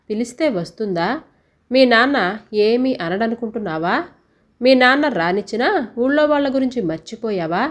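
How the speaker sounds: mild angry retort, pitch pushed up on the accusing lines; a touch of exasperated anger; angrily. Acted. Mother snaps back at her daughter about the father. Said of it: "కోపంగా అడిగింది".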